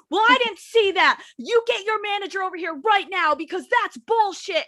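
high-pitched indignant customer impression; mock irate old customer. Waitress mimicking an old person refused an expired coupon, high mock outrage.

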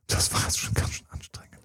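very soft, worn-out whisper; spent whisper. Acted. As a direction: act exhausted, barely voicing it. Acted woman needing a break afterwards. (erschöpft geflüstert, gespielt)

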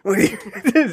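groggy hoarse mumble; smoker's rasp. Retold or imitated. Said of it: "she's like".

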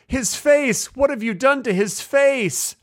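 high-pitched horrified movie mother; distraught film mother. Acted. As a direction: act out a mother's horror, high and drawn out. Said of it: "and she's like".

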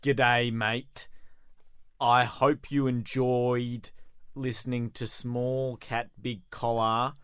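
badly faked Aussie greeting in American; American doing Australian. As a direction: sign off as an American faking Australian. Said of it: "American doing an Au-, Aussie accent".

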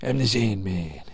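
put-on goofy comedian voice; Adam Sandler. Podcaster showing how Adam Sandler gets out there, mimicking voice. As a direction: do the catchphrase as an impersonation. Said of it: "give me your best Adam Sandler impression".

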